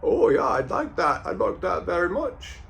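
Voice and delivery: high, put-on Liverpool accent; mock Scouse voice, lifting at the end; John Lennon. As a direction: imitate a polite Liverpudlian. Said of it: "John Lennon was like".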